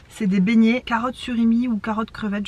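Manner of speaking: talking with mouth full. Real, not acted. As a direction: speak through a mouthful of fritter. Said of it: "désolée je parle à bouche pleine".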